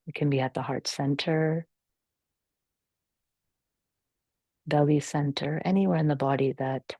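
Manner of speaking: calm, measured meditation guidance with long pauses; guided meditation. Real, not acted. Yoga teacher settling the class into natural breathing, calm guided meditation. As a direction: guide them gently through the breath, unhurried.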